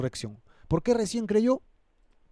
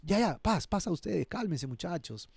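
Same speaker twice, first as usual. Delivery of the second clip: calming down; 2 semitones higher, 4 dB quieter than usual. Acted. Acts Jesus calming the excited disciples.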